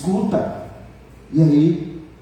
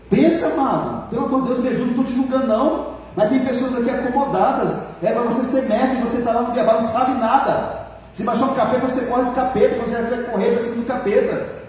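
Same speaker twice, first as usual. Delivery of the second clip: higher, urgent, driving exhortation; fiery preaching; 6 semitones higher than usual. Real, not acted. Pastor rebuking lazy believers, fervent and raised. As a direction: push the congregation hard.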